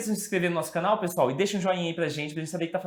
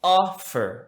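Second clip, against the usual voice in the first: "Offer" drawn out slightly, OF-fer, first beat stressed; "Offer" demonstrated with the stress up front; stress on first syllable. Shown as a demonstration. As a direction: punch the OF in "Offer", let fer drop. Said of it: "a tônica está na primeira sílaba".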